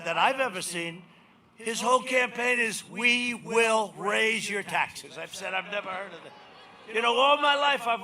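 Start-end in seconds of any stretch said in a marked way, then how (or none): 2.9-5.2 mock slogan. Mocking opponent's campaign slogan.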